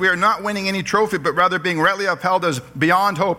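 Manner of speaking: paraphrased criminal's voice. Acted. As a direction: speak it as the honest criminal owning his failure. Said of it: "I would paraphrase it this morning".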